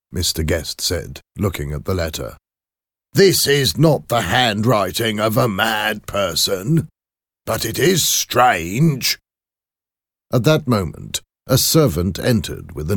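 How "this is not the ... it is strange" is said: higher put-on voice, deliberate verdict; head clerk character. Clerk judges the letter's handwriting for his employer, high-voiced.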